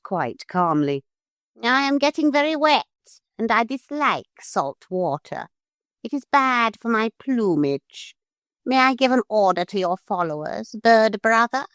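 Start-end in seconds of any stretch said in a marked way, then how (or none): 1.6-11.7 high, quick, fussy parrot; a prim bird complaining. A narrator's reading. Parrot complains of salt water to the gulls, high and quick.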